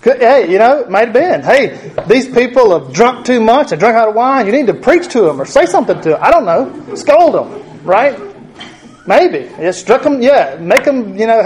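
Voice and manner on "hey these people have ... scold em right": imitating Mary. Voicing Mary's possible request.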